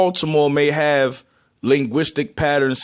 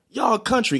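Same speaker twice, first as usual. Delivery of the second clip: higher-pitched mock teasing; 7 semitones higher, 3 dB quieter than usual. Cousin making fun of Baltimore relatives, teasing. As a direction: imitate a cousin poking fun. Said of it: "He made fun of us, man".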